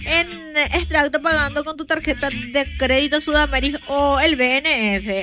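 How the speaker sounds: ad read. Acted. Host reads live pharmacy ad.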